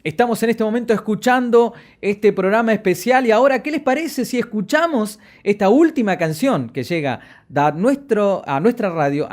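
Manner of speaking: punchy on-air announcing, easing toward the end; radio announcer. Shown as a demonstration. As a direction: introduce a song like a radio host, starting high and loud. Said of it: "locutores profesionales decir".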